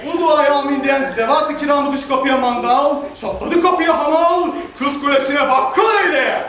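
mock prayer.

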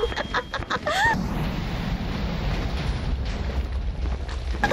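long whispery high cackle; airy delighted giggle; breathless laugh. Real, not acted. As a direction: laugh until out of air. After big damage, long laugh.

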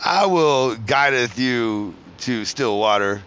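slow, archaic mock psalm voice; mock preacher. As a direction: parody a shepherd preacher, slowly.

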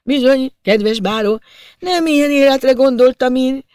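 high, plaintive voice of a misunderstood little official; wine-loosened lament. A narrator's reading. Tipsy district official confiding in the baron, plaintive and dreamy. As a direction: pour out your grievances, pitched well above normal. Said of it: "a bor lassan fölnyitotta Prosperjek".

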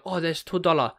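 put-on caricatured Chinese-accented shopkeeper; mock Chinese accent. Fish and chip shop seller quoting a price, mock Chinese accent. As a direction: imitate a Chinese takeaway seller's English. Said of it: "like, a Chinese".

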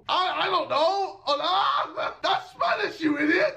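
high laughing panic; flustered answer through laughter. Retold or imitated. Retold flustered classroom answer.

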